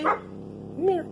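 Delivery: high cooing call to the cat; coaxing call. Real, not acted.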